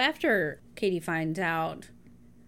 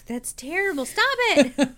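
high, loud laughing plea; laughing protest; 8 semitones higher, 5 dB louder than usual. Real, not acted. Co-host begging an end to the bad accent, laughing. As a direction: protest through helpless laughter.

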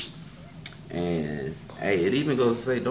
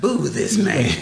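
loud jeer; 6 semitones higher, 7 dB louder, slower than usual. Pretend. Jeering inmate.

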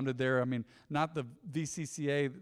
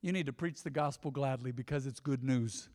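glum take; 4 semitones lower, 7 dB quieter than usual. Shown as a demonstration. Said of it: "Not in a depressed way".

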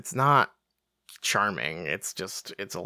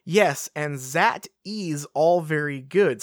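thick mock French accent, drawn out slowly; 3 semitones higher, slower than usual. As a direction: read it in a broad French accent. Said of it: "she's speaking in a French accent".

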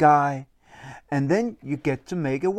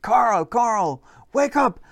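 higher calling to wake him; waking the cat; 6 semitones higher, slower than usual. Acted. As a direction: rouse the sleeping cat. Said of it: "They woke him up and said".

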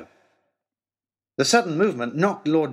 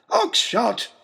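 roaring; 9 semitones higher than usual. Acted. Lord Daunt roaring at Oxshott after the balloon bursts, angry roar. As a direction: roar his name in fury. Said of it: "roared Lord Daunt".

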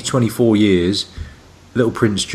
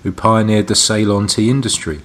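product read; 3 semitones lower than usual. Acted. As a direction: read the label like a tea advert. Reads tea blurb.

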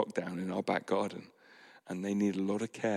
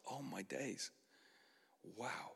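very soft, higher-pitched wonder; hushed amazement; 3 semitones higher, 16 dB quieter than usual. Retold or imitated. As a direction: marvel under your breath, pitch lifted. Acts awe after prayer is answered.

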